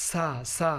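সা with a light, thin s sound; thin seen. Shown as a demonstration. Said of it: "একটু পাতলা উচ্চারণ হবে".

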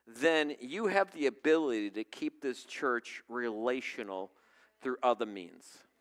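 low, quiet, sorry confession; sorrowful repentance. Retold or imitated. Pastor confessing to the Lord, quiet and sorrowful. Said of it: "True repentance is sorrowful repentance".

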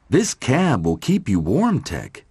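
a touch of happy Molly. Acted. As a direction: say it kindly and happily. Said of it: "said Molly happily".

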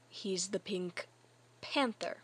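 measured, over-patient delivery; slow, patient explanation. Acted. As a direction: spell it out slowly for someone who isn't getting it. Repeats slower for confused friend.

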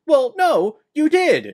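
shrill-free squeaky insistence, hammed up; mock indignant Ida. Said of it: "And she goes".

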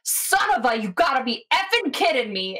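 lightly acted fed-up cook; exasperated cook. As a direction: curse in disbelief without really shouting. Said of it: "that same familiar voice of the cook".

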